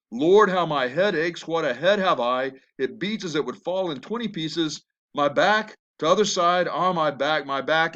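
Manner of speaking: lightly acted moaning about aches; complaining nurse. Nurse stalls Juliet by listing her aches, complaining. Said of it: "finally the nurse says".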